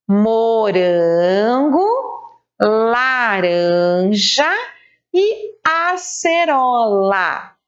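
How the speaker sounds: very slow, drawn-out reading of each fruit; slow read-aloud. Shown as a demonstration. Teacher reading the fruit names slowly to the class. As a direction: read the list slowly so children follow. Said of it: "vamos ler as frutas".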